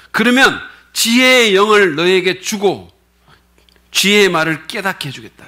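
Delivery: lightly voiced promise of wisdom, slow; a hint of a solemn divine voice; wisdom speaking. (지혜가 약속하듯 살짝 엄숙하게)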